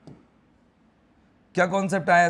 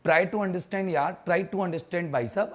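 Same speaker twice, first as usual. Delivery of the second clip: slowly pleading with the student to understand; slow, coaxing; slower than usual. Shown as a demonstration. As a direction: try to understand stretched out slowly. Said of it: "समझने की कोशिश किया करो".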